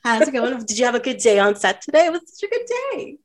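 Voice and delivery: playing a lovestruck partner asking about their day; sweet texting couple. Imagining celebrity couple texting in bed, cutesy high voice. Acting out couple's bedtime texts.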